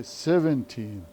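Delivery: "seventeen" stressed on SEV; stress on first syllable. Shown as a demonstration. Teacher showing how to count teen numbers, "seventeen" with first-syllable stress. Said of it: "stress the first syllable".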